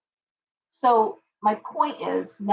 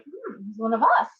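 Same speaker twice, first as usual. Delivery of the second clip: level doubtful hmm; skeptical. Retold or imitated. Second reaction, doubtful.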